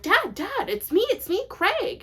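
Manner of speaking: high, eager call across a room; calling after a stranger, high and loud. Retold or imitated. Runs calling to his dad.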